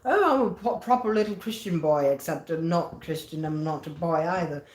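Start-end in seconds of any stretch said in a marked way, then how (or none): 0.1-2.1 hammed-up well-behaved boy. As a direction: send up the dutiful churchboy act. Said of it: "acting like".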